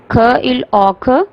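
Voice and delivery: ख इल औ ख, each sound split apart and slow; sounding out clock. Shown as a demonstration. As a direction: break ख इल औ ख into separate sounds. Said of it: "The beginning sound of clock is". (ख इल औ ख को धीरे-धीरे अलग-अलग ध्वनियों में बोलें)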